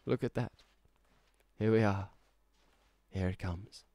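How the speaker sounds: dreamy sentimental monologue in a put-on accent; emotional speech. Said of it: "turned on the accent to do my emotional thing".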